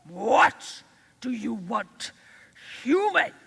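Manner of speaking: loud, proud eagle demanding; a proud bird looking down on the girl; haughty fish eagle. Acted.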